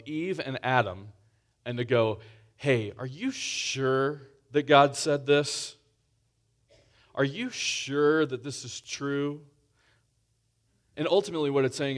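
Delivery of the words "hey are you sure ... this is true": a lightly voiced serpent, slow and probing; tempting serpent voice. The serpent questioning Eve, lightly voiced, slow. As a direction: plant doubt slowly, like the serpent. Voicing the serpent casting doubt.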